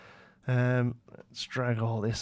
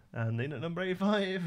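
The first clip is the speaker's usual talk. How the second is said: clickbait video narrator; 7 semitones higher than usual. Pretend. Continues mock countdown.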